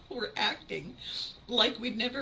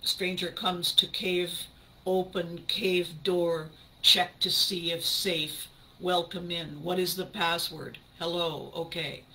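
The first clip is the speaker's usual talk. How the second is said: cave brain; 3 semitones lower than usual. Acted. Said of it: "my cave brain going through the motions".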